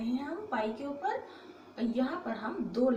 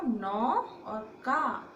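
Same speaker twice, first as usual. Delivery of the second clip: नौ and का split apart very slowly; slow syllable drill; much slower than usual. Shown as a demonstration. Teacher to students, building नौका slowly. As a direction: spell out नौ ... का syllable by syllable. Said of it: "ना पे लगा औ".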